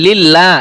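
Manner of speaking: লিল্লাহ with a thin, light 'laa'; light lam. Shown as a demonstration.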